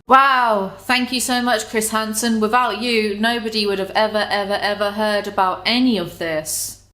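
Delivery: dry mock gratitude; sarcastic thanks. Real, not acted. Youtuber mocking Chris Hansen, sarcastic. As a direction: thank him with heavy irony.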